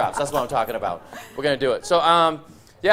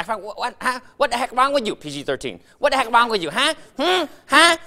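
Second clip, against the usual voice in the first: nagging Asian parent; 7 semitones higher than usual. Retold or imitated. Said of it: "they're like".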